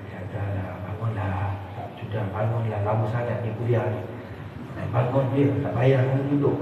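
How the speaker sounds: low, hushed voice of a tempter; devil's whisper. Acted. Devil tempting a listener to leave the lecture, hushed whispering. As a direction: murmur it softly, coaxing someone to leave. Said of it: "Dia bisik-bisik je".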